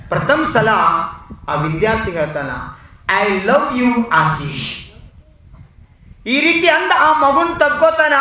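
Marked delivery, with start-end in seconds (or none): 3.2-4.9 slow, drawn-out words, falling away; affectionate declaration. A narrator's reading. Teacher tells Ashish she loves him, slowly, affectionately. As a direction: let each word linger tenderly. Teacher first says it to the boy.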